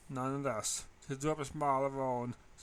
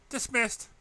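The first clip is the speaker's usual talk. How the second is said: announcing; 9 semitones higher, 5 dB louder than usual. A narrator's reading. Teacher ending class.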